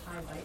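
Hivites with a long I, HIGH-vites. Shown as a demonstration. Class member reading her Bible's marking, long I in Hivites. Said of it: "My Bible has a long".

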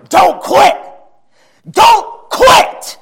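put-on high, loud growling old man; growly old man. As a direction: bellow it like the old preacher. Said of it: "Hearing an old man".

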